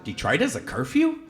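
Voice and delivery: high, laughing disbelief. Retold or imitated. Father to the officer, amazed and laughing at the news of a curfew.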